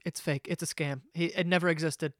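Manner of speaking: dog owner fearing a scam, hushed; panicked inner voice. Retold or imitated. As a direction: mutter the worst case to yourself. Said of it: "I'm like".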